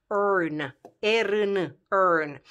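"earn" isolated, then spelled, then said again; English ending "earn". Shown as a demonstration. Teacher presenting the English suffix, careful isolated pronunciation. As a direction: model the suffix "earn" as a separate syllable. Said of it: "terminația asta ic din română va fi în engleză".

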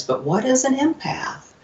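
high, rising puzzled question; retold bewilderment, pitch lifting high. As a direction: ask it baffled, voice climbing up. Puzzled reaction to being told.

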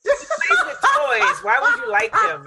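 squeaky high-pitched mock quote. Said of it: "where she goes".

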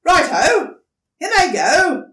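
high, loud and quick; eager agreement. Acted. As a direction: rush it out, delighted.

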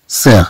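سير as one syllable starting with S; French pronunciation. Shown as a demonstration. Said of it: "سننطقها".

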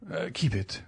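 soft, trailing keep it; defeated murmur. A narrator's reading. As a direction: let it die away. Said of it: "perspiration started from the roots".

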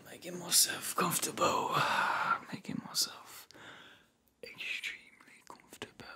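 very soft, fading into a whisper; contented sighing murmur. Acted. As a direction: sink into comfort and let the voice fade. Settling down with a sigh.

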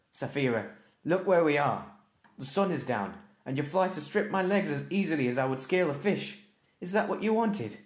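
high, loud furious scolding; angry. Acted. Injured rider scolding his dragon, high and loud in anger. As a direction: rail at her, pitch climbing.

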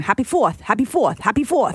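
imitated Boston accent, repeated greeting; light Boston accent on each greeting. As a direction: mimic Bostonians chanting in their accent. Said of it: "but just 'cause they had the accent".

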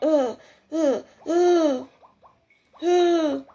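strained choking grunts, climbing in pitch; repeated effortful gagging noises; acted choking grunts. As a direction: voice someone gagging on a forced mouthful. Voices boy choking on food.

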